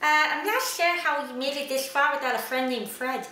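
lightly voiced lisping sloth; a hint of the Ice Age sloth; Sid the sloth voice. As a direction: talk like a dopey cartoon sloth. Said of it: "You sound like the sloth from Ice Age".

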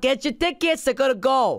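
slipping into a New York accent. Real, not acted. Host urging listeners to buy tickets, sudden New York accent. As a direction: push the tickets like a pushy New Yorker. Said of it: "I'm from New York all of a sudden".

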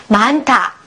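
"マンタ" linked, with an aspirated t; "マンタ" with the second syllable's consonant aspirated; aspirated pronunciation. Shown as a demonstration. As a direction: say "マンタ" as one word, puff of air on タ. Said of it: "これ発音すると".

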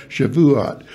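Shavuot with all three syllables, sha-vu-ot. Shown as a demonstration. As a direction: correct it firmly to sha-vu-ot. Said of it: "Some people try to make it two syllables".

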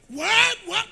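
high, loud amazed exclaim; mock awed listener. Congregation wowed by the preacher, mock excited. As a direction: imitate a crowd dazzled by talk.

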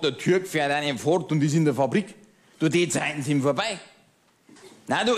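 a lightly voiced pub-table know-it-all, chatty and smug; grumbling Bavarian regular. Pub regular ranting to his old friend, smug grumbling. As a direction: play the pub-table ranter holding forth to his friend. Cabaret character monologue.

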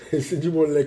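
chuckling imitation of a friend; playful laughing nod to the catchphrase. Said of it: "comme dirait notre ami Smiley".

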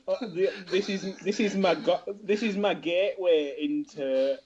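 put-on amused stab at an Irish accent; generic Irish accent. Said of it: "generic Irishman".

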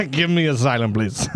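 pleading while laughing; laughing plea. Pretend. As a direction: beg for asylum through giggles. Spy begs asylum laughing.

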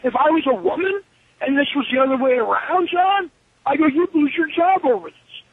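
exasperated, acted-out warning; indignant protest. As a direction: argue it out as if confronting the boss. Acted quarrel over paternity leave.

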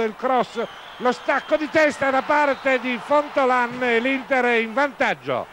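rising excitement as the attack builds; live play-by-play. Real, not acted. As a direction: call the action live, quickening.

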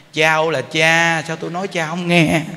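hammed-up scolding; mock exasperated yell. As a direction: yell at the child in mock frustration. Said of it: "nhiều cô thì nói".

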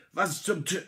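jolted mid-curse; sudden fright as the ship is hit; startled outcry. A narrator's reading. Shock as narrator falls.

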